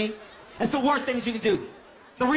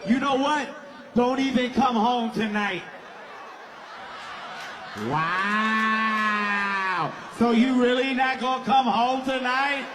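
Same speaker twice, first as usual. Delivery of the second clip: mock angry girlfriend; slower than usual. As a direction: answer yourself and get madder. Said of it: "This is what that conversation looks like".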